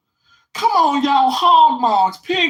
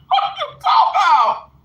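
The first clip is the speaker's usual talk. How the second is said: loud, higher, disbelieving; shocked; 11 semitones higher, 4 dB louder than usual. Real, not acted. Reacting to a comment about scrapple, loud shock. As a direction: blurt it out in shock.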